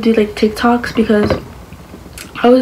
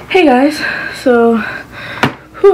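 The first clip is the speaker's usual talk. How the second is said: breathless, panting between words; out of breath; 2 semitones higher, much slower than usual. Real, not acted. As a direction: speak while catching your breath. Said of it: "I'm out of breath".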